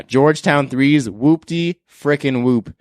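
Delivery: slow, hyped-up declaration. Real, not acted. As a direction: draw it out like a proud verdict. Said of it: "call these probably my first whoop-de-whoop".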